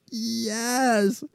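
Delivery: high, soft little triumphant yes; quiet victory under the breath. Retold or imitated. Narrator cheering the man who shamed the other, quiet triumph.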